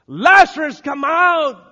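high, very loud commanding call; forceful ringing summons; full shout. Acted. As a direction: shout a dead man back to life. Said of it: "Jesus had to shout".

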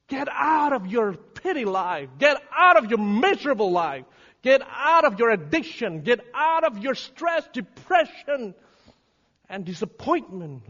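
high, loud exhortation; driving, insistent preacher's commands; full-force preaching. Real, not acted.

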